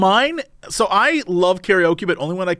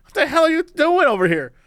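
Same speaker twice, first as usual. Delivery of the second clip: higher, whiny and exasperated; whiny complaining voice; 7 semitones higher than usual. Pretend. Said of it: "I'd be like".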